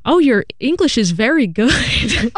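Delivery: put-on a touch of a patronising old customer; old man's compliment. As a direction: mimic the old man praising her English. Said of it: "He's like".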